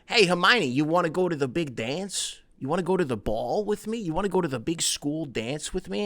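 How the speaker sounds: high-pitched put-on Bulgarian accent; hammed-up Bulgarian accent with rising questions; Viktor Krum. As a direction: invite her out in a mock Bulgarian accent. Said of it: "Viktor Krum was the one who was like".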